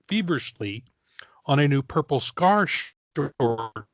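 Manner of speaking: measured announcer delivery with punched names; news read. Acted. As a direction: read it out like a breaking news bulletin. Reads out breaking news item.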